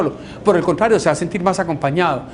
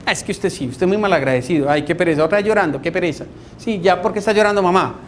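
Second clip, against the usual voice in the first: critical relative; faster than usual. Retold or imitated. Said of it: "se pueden convertir en críticos".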